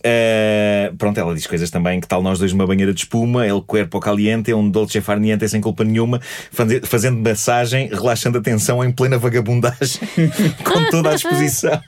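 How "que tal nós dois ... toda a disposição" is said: sensual voice. Retold or imitated. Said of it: "Estavas muito preocupado em fazer uma voz sensual".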